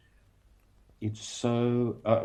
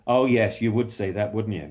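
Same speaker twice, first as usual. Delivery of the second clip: louder, sardonic Sweeney Todd jab; Sweeney back in character; 4 dB louder than usual. Retold or imitated. Actor resumes Sweeney, challenging the audience member, louder. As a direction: sneer it as Sweeney back in the scene. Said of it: "then we're back into it again".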